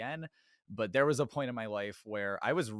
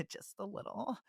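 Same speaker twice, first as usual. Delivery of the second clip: high, put-on tearful voice; joke-cry in a higher pitch, after a laugh; mock crying voice; 11 semitones higher, 7 dB quieter than usual. Podcaster joking about tearing up, in a mock crying voice. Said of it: "That's when I bring out my crying voice".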